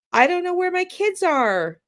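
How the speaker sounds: high, rising uncertain tone; upswing. Shown as a demonstration. Coach demoing an unsure parent, high upswing. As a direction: sound unsure, as if asking. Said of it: "you can hear the upswing when you say".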